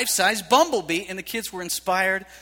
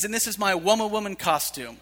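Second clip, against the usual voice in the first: lightly voiced little girl through a laugh; laughing toddler quote. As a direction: chuckle while quoting her. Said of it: "she says".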